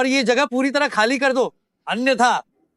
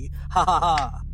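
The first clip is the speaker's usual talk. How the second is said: lower, mocking "ha ha ha"; low triumphant laugh at the victims; gloating villain laugh; 4 semitones lower, 4 dB quieter, much slower than usual. Villain gloats over ruined exhibition.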